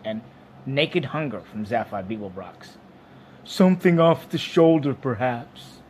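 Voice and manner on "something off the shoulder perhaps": suggesting animal. A narrator's reading. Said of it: "suggested the animal".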